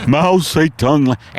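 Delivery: a dazed horse struggling to breathe; Mister Ed on acid. Acted. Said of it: "my impersonation of Mister Ed".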